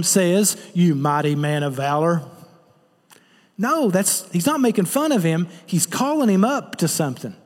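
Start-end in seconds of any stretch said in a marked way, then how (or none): 0.7-2.2 a low, dismissive "You mighty man of valor"; lightly sneering jab at a frightened man; mock insult. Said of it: "insulting him".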